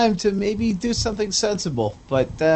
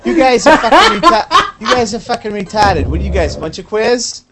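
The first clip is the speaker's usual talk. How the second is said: a lightly put-on Boston accent, grumbling; a Revere Beach guy with a light Boston accent, griping about freestyle; mock Boston accent; 2 semitones higher, 5 dB louder than usual. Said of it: "it's the accent show".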